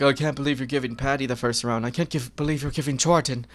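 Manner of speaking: a light, accidental Irish accent mocking critics; slipping into Irish. Fan mocking round-one critics in a slight Irish accent. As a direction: mimic the critics with a drifting Irish lilt. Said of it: "Don't know why I turned Irish there".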